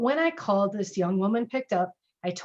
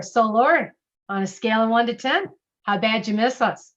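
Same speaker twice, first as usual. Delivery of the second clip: playful teasing, a little louder; 4 dB louder than usual. Shown as a demonstration. Gym staff greeting a returning patron, playfully teasing. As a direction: rib a regular patron with a grin. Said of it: "A little bit of teasing in there".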